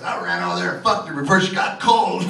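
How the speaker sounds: shouted punchline breaking into laughter; laughing shout. Retold or imitated. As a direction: yell it through a laugh. Friend quoted punchline.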